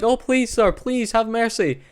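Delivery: high, slow, hammed-up begging; mock pleading. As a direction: beg him for mercy in a whiny voice. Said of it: "She's like".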